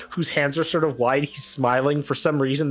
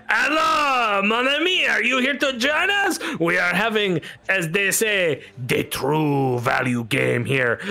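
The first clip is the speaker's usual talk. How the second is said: French gambler; 7 semitones higher than usual. Acted. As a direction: greet him like a showy French card sharp. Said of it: "you just hear this".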